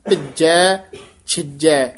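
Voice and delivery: ਭਿੱਜੈ, ਛਿਜੈ with doubled light j; plain j sound. Shown as a demonstration. Teacher models for learners, ਭਿੱਜੈ, ਛਿਜੈ with j, never jh. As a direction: say ਭਿੱਜੈ and ਛਿਜੈ separately, crisp j. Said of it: "ਜੱਜਾ ਹੀ ਬੋਲਣਾ ਹੈ".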